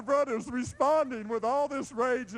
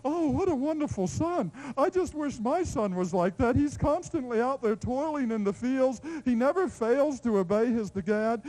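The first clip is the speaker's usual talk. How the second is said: admiring neighbor; 4 semitones higher than usual. Retold or imitated. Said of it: "look at him and think".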